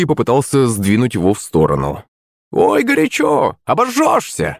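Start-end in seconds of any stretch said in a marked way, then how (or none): 2.5-4.6 high, slow shrieking crone; squealing old woman. A narrator's reading. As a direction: squeal it out like a startled old hag. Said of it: "взвизгнула старуха". (визг старухи, высоко и протяжно)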